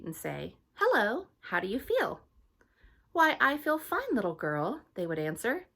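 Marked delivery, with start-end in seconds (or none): 0.7-2.2 put-on much higher, loud little-girl greeting; Hattie's voice. Hattie greeting strangers on the street, high and eager. 3.1-4.8 higher, louder friendly reply; passer-by. Acted. Stranger answering Hattie, higher and friendly.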